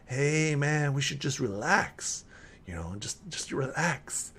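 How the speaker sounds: lightly voiced relax-man type; laid-back council member. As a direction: lightly play a guy urging everyone to relax. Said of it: "You hear somebody who's like".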